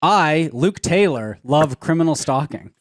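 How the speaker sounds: slow with a long pause after "Luke Taylor"; slow, pausing after Luke Taylor. Shown as a demonstration. Friend demonstrating the line for Luke, slow with a big pause. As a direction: say "I, Luke Taylor," slowly, then a long pause before "love criminal stalking". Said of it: "say it how I would say it in the first person".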